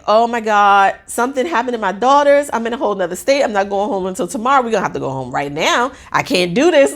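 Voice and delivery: rushed mock panic, pitch jumping about; hurried, worked-up retelling of alarm; retold freak-out. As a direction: replay a mother's rising panic in a hurry. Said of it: "I'm freaking out".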